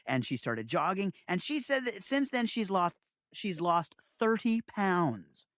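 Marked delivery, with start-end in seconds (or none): 3.3-5.5 slow, drawn-out reveal of big news; proud announcement. Real, not acted. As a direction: stretch out the big number for applause.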